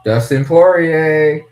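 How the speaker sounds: loud, slow, drawn-out ring announcer call. Real, not acted. Streamer announcing a fighter's name, loud slow ring call. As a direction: boom the name like introducing a fighter.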